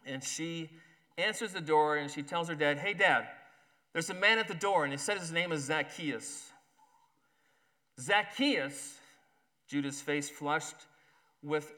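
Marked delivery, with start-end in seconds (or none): 2.8-6.5 daughter calling. Acted. Daughter voiced in story. 8.0-9.0 surprised exclamation. Acted. Judah startled.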